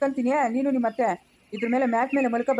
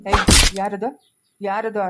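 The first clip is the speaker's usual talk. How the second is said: calling out; 3 semitones lower, 5 dB louder, much slower than usual. Acted. Father-in-law calls out to ghost.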